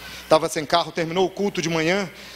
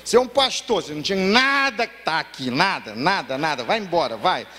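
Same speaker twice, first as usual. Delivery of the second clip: put-on drunk man's bitter despair. A drunk Marcelo tells the pastor to leave the bar, bitter and despairing. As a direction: send him off from a place of shame. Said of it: "Esse pastor".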